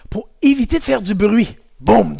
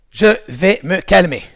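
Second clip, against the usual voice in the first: slow self-calming; 3 dB louder than usual. Shown as a demonstration. Deliberate calming phrase, drawn out.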